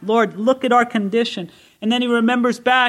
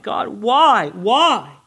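cry of pain; 3 semitones higher, 3 dB louder, much slower than usual. Acted. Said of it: "the passionate cry of someone in pain".

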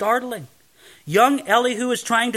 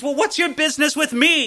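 higher-pitched imitation of a haughty lord; haughty, overbearing; 7 semitones higher than usual. Rich lord answers poor woman at his door, mock haughty. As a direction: imitate an overbearing great man. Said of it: "his very haughty and overbearing tone".

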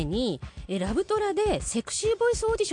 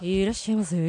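mock sexy clerk voice; 7 semitones lower than usual. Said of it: "めちゃくちゃいい声なんです".

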